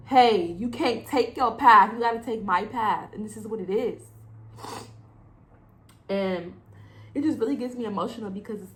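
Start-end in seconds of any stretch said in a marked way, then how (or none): 0.1-3.1 voicing God. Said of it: "God lines things up to where".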